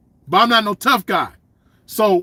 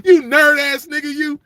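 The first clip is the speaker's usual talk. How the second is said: teasing yell; 6 semitones higher than usual. Acted. Roasting the imagined nerd.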